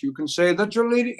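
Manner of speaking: lightly sung, high croon in a famous crooner's style; a hint of a crooner's croon; impression of a crooner. Singer keeps crooning a song for the party guests. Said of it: "I turned into Johnny Mathis".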